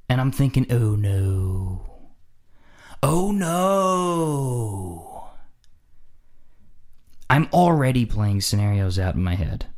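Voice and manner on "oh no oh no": dread. Acted. Dreading the drunk men ahead.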